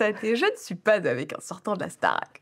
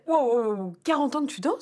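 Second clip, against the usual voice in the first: high, amazed question; can't believe the number she just heard; astonished; 3 semitones higher than usual. Real, not acted. Amazed at forty years dancing.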